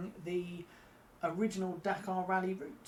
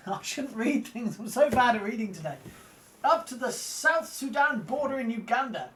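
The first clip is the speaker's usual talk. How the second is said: slow, grand, higher explorer reading; a lightly voiced posh explorer, slow and raised; posh explorer's voice; 5 semitones higher, 6 dB louder, slower than usual. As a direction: play the pompous old explorer recounting his travels. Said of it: "in a posh explorer's voice 'cause I think it works better".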